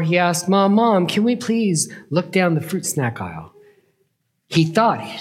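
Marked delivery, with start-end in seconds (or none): 0.5-3.5 put-on a child's higher pleading voice; eager little boy. Boy pleading with his mom in the store, eager. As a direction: beg like a kid tugging at mom.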